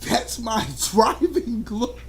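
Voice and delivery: slow quote, laughing through. Retold or imitated. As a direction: laugh while quoting it. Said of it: "that man said".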